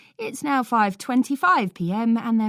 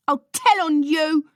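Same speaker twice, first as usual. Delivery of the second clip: put-on high, loud childish threat; yell; 11 semitones higher, 6 dB louder than usual. A narrator's reading. Small boy threatening to tell on his brother, yelling. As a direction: scream the threat at your brother. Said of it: "yells Paulie".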